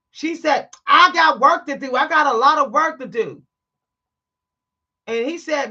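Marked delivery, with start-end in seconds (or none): 0.9-3.4 loud, curt brush-off; clerk's loud retort. Retold or imitated. Gas station clerk brushing off a customer, loud and curt. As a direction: throw the excuse back hard.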